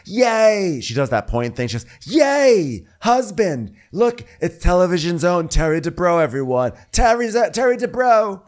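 high, loud squealing cheer; mock cheer. Imitating Heather cheering her husband's arrival.

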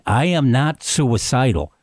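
mildly emphatic retelling of "I am not suicidal"; emphatic quote. Retold or imitated. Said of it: "so emphatically".

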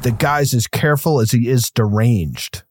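lightly mocking dramatic read; quoted movie line. Repeating the script line for co-hosts, dry mock. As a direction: lean on careful, dry and mocking. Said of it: "I had to write this down".

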